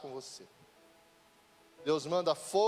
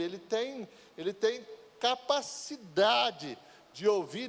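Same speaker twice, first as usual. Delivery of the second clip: full-force preaching; 5 semitones higher than usual. Acted. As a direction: preach at full fire to the church.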